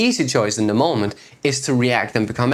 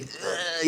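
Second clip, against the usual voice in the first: soft pained ugh groan; a quiet choked ugh, like heavy crying; mock sob groan; 5 semitones higher, 10 dB quieter than usual. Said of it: "the face is like".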